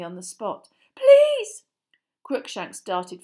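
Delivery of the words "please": high loud desperate plea; frantic plea. A narrator's reading. Hermione begging at the tree, high frantic plea. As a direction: beg with everything.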